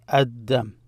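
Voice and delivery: Ad-Dam with doubled D, no L; assimilated D. Shown as a demonstration. Teacher telling how it's pronounced, Ad-Dam with doubled D. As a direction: hold the D in Ad-Dam. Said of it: "to tell you how it's pronounced".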